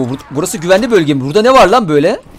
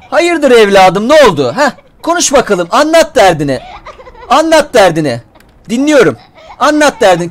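mock concerned elder; 4 semitones higher than usual. Questions crying zombie child like elder.

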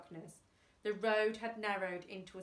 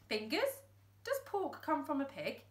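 bemused; 5 semitones higher than usual. Acted. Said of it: "Thumbs looked bemused".

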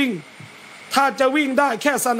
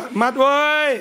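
irritated call; 2 semitones higher, slower than usual. Shown as a demonstration. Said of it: "อารมณ์เสียหน่อยก็".

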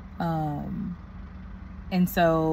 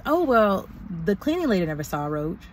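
mocking the office lady; 3 semitones higher than usual. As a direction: parrot her lazy excuse. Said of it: "The front office lady says".

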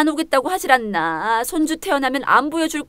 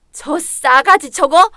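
louder, slow indignant outburst; angry outburst; 2 semitones higher, 6 dB louder, slower than usual. Acted. Mother-in-law outraged at refusal to attend the rite, slow angry outburst.

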